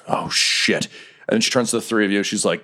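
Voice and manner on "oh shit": half-whispered dismay; muttered curse. Acted. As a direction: mutter it under your breath. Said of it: "She just mutters".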